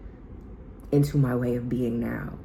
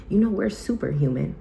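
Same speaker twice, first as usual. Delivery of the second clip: hyped pep talk; 4 semitones higher than usual. Retold or imitated. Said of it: "And I told her, I said".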